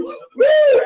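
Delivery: high whooping cheer; excited cheer. Real, not acted. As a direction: whoop as you walk into the party. Cheering entering election party.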